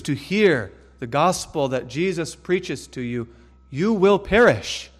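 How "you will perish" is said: stern warning. Real, not acted. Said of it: "sermon warning".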